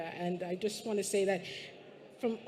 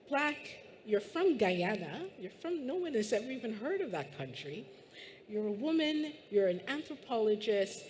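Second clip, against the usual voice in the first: put-on posh British accent; 2 semitones higher than usual. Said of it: "I can't do it, but imagine that accent".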